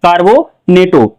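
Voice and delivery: slow model answer. Shown as a demonstration. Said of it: "क्या पढ़ा जाएगा इसका नाम?".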